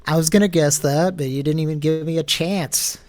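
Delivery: indignant yelling. Real, not acted. Prank caller yelling back at woman.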